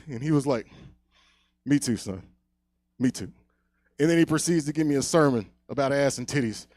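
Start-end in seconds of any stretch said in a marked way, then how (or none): 1.7-3.3 understated, solemn mock confession; lightly voiced grandpa. Grandpa admits it to his grandson, mock solemn. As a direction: confide it as an understanding elder, lightly played.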